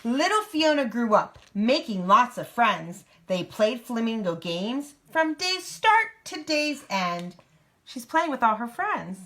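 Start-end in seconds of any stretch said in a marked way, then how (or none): 0.0-7.3 lively picture-book narration; reading to a child. A narrator's reading. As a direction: read it out in a clear storybook lilt.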